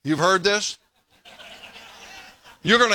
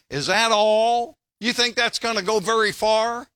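mocking; 3 semitones higher than usual. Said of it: "they mocked her and said".

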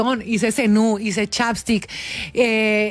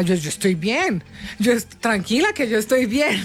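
chuckling through a fake "I'm fine"; laughing mock reassurance. Daughter laughingly assuring her mother she's fine. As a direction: reassure mom while half laughing. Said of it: "Y yo le decía a mi mamá".

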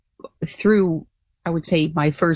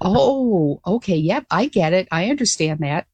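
dawning understanding. Retold or imitated. Pilot replying to cashier about the wives, dawning understanding. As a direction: let it click, then accept it. Acting out her dawning realisation.

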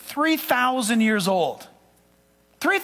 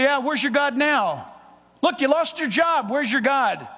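mock taunt, a touch higher; 3 semitones higher than usual. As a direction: needle the believer. Mocking friends voiced.

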